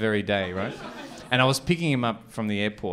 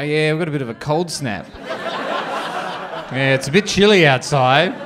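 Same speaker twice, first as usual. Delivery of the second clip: mock innocent; 4 semitones higher, 4 dB louder than usual. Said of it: "I go".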